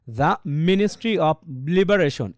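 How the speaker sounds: slow, Liberation punched; stressed reading. Shown as a demonstration. Teacher showing the rhythm slowly. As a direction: drive into Liberation. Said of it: "তাহলে কেমন হচ্ছে".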